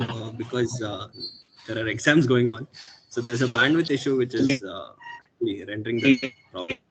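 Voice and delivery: choppy audio over a weak connection; bad connection. Real, not acted. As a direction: voice breaking up on a poor line. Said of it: "sorry for the connectivity issue".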